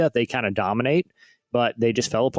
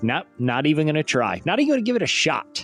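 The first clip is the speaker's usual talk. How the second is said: mock gymnast quitting, laughing; 3 semitones higher than usual. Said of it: "He's like".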